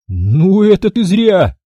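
slow, mock-kindly scolding; gentle reproach. A narrator's reading. Max chides the bald guard he's pinning, mock-kindly. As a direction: scold him like a patient uncle. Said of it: "пожурил его Макс".

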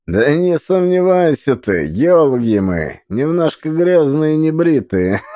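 jolly fat man. Acted. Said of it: "захохотал толстый мужик".

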